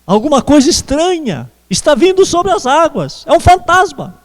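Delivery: half-acted cry of fright; mild retold cry of alarm. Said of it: "eles gritaram".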